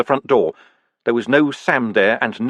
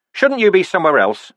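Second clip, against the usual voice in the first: higher, louder pointed question; a hurt man needling Death; Vimes asking; 8 semitones higher, 4 dB louder than usual. A narrator's reading. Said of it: "he said".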